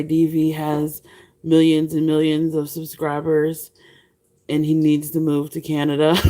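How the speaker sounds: a hint of presidential parody breaking into a laugh; Trump. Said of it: "Trump would say".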